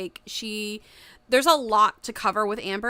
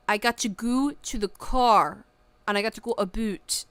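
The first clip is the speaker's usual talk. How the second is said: mock Canadian accent. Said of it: "weird broken Canadian accent".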